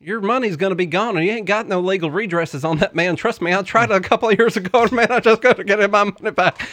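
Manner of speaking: folksy Southern pitchman; Tennessee accent. Pretend. Co-host pitches the stock market class, mock Tennessee accent.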